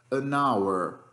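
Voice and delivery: an hour said with a silent H, like an our. Shown as a demonstration. Teacher shows students the silent H in hour. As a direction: link an straight into hour, no H. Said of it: "O H aí não teve som".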